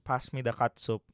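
"catsup" said as KUT-soop; grandpa's "catsup". Retold or imitated. Grandson quoting grandpa at the table, "catsup" as KUT-soop. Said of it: "my grandpa always used to".

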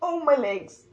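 real cramp pain caught on the mic; groaning in pain. Real, not acted. Vlogger whose legs cramp after recording, crying out in pain. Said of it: "I think I'm cramping".

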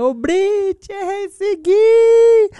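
very high, loud, slow drawn-out yell; a playful fan screaming a greeting across the street; pretend shout. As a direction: bellow her name down the street as if she's far away. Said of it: "eu vou gritar".

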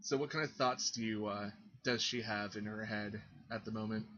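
talking between noisy sips; slurping a drink while speaking; slurping coffee. Real, not acted. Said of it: "I am making all sorts of slurping noises".

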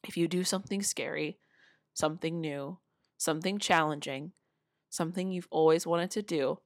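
each phrase set apart, spoken deliberately; slow and emphatic. Shown as a demonstration. Speaker slows down for total emphasis with viewers, deliberate. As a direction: lay it out word by word so it lands. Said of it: "I'm gonna say this really slowly for total, total emphasis".

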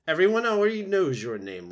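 put-on high, loud old goose voice; Loudwing. A narrator's reading. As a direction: announce it like a brash squawky goose. Goose Loudwing addresses the robot.

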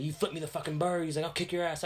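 high-pitched mimicked aggression; heated mock threat; retold threat. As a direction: imitate a stranger picking a fight. Acting stranger threatening in quarrel.

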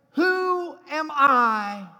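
drawn out, very slow; slow searching question. Acted. Jesus asking listeners personally, slow and searching. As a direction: ask it slowly, heavy with weight.

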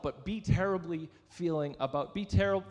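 stumbling over the phrase and restarting; tongue-tied. Real, not acted. Preacher voicing God's words to the church, tongue-tied. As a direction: trip on the words, break off mid-word. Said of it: "Got tongue-tied there".

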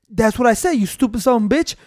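lightly voiced manager, even and deadpan; unruffled prankster manager. Fake manager answering the mad wrestler, lightly played calm. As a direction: repeat the insult without rising to the anger. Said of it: "pretending to be the manager".

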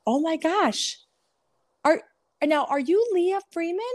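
high, sugary mock-surprised girl voice; gushing mean girl. Old high school bully greeting Leah in her salon, high mock gush. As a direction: imitate the fake-sweet high school bully.

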